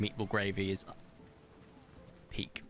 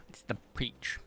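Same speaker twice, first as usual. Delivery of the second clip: breathy hushed whisper, no voice; soft aside whisper; 4 dB quieter than usual. Real, not acted. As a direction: whisper it under your breath. Repeats the colour softly.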